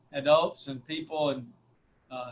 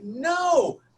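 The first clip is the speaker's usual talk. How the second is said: retold shout; 9 semitones higher, 4 dB louder than usual. Retold flat denial.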